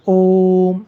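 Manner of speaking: ओम drawn out on the ओ; pluta vowel demo. Shown as a demonstration. Teacher repeating the long-held vowel for students. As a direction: hold the ओ of ओम long. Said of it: "तीन बार बोल रहा हूँ लगभग".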